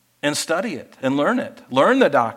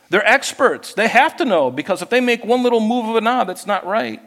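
raised preaching; 5 semitones higher, 3 dB louder than usual. Real, not acted. Preaching at full force.

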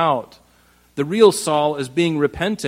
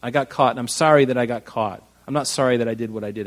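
sorry to be caught; 4 semitones lower, faster than usual. Retold or imitated. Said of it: "That's the attitude".

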